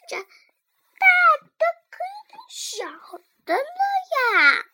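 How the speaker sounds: giggly high voice; giggling. Acted. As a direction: laugh through the lines. Laughing through dialogue.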